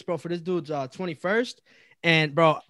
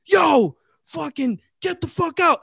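higher-pitched imitation of a guard throwing people out; mock guard order; 8 semitones higher, slower than usual. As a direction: imitate a bouncer calling out an order. Retells security guard ordering them out.

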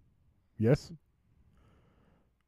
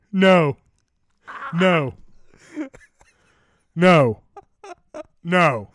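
desperate no; 4 semitones higher, 4 dB louder, slower than usual. Real, not acted. Dreading the truth result.

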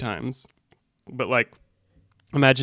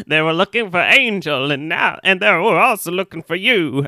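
a put-on accent, lightly wounded; half-manage a character voice while acting hurt; stabbed Willie; 4 semitones higher than usual. Stabbed barkeep warns Buffy, put-on voice. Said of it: "I can't do the voice and also act like I've been stabbed".

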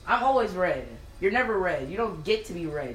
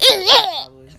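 laughing; 14 semitones higher, 11 dB louder, slower than usual. Real, not acted. Laughing high reply.

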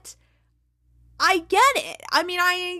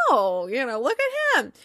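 imitated fond cooing; faster than usual. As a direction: coo over someone's kid, playfully. Voices coach's reaction to son's news.

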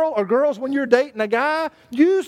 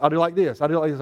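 emphatic; 7 semitones lower, faster than usual. Shown as a demonstration. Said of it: "I want to be a little more emphatic".

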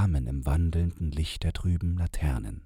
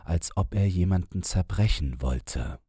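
agitated storyteller man; 5 semitones higher, 4 dB louder than usual. Acted. Man tells his story.

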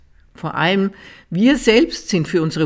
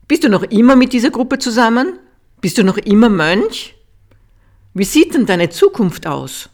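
loud, high, demanding questions; an annoyed father grilling his son; angry father; 6 semitones higher, 7 dB louder than usual. A narrator's reading. Angry father on the phone to his monk son, loud demanding questions. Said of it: "was ihn sehr verärgert hatte".

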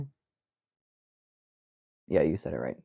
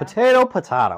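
potato then pah-tah-to, higher, laughing; sing-song the two potatoes; joking variants; 11 semitones higher, 8 dB louder than usual. Pretend. Host joking about the song's two potatoes, laughing. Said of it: "Is it potato?".

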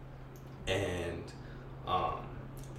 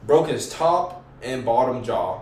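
loud, excited boasting; hyped-up bragging; 4 semitones higher, 8 dB louder, slower than usual. Real, not acted. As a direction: brag about the knockout. Excited punch climax.

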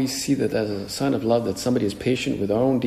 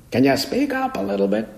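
put-on much higher, loud-ish old man; old priest voice; 12 semitones higher than usual. Old deaf priest asking the preacher to speak up, much higher. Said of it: "he would say it very loud".

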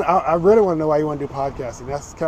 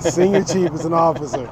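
louder, hammering each word; stubborn insistence; 4 dB louder than usual. Real, not acted. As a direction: repeat it louder and refuse to back down. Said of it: "willing to die on that hill".

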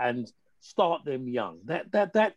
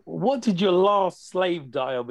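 put-on sarcastic kid; 4 semitones higher, 4 dB louder than usual. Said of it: "is one quite often used".

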